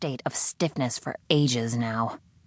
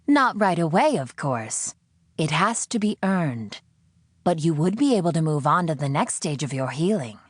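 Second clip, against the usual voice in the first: condescending; 2 semitones higher than usual. Acted. The captor lecturing the prisoner, condescending tone. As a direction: talk down to her. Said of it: "irritatingly condescending".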